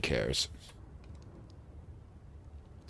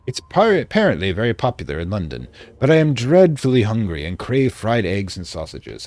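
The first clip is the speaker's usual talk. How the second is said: put-on light British accent for a diary entry; reading a diary in a mild British accent; vaguely British accent; 3 dB louder than usual. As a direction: read it like a 1920s English diarist. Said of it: "I'm doing a vaguely British accent".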